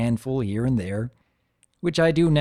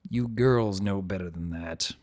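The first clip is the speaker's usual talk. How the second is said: mild scolding; 3 semitones lower, 3 dB quieter than usual. Acted. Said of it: "I scold".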